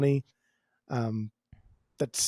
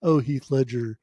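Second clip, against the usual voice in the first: lower register parody voice. Retold or imitated. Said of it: "lower register vocal thing going outward".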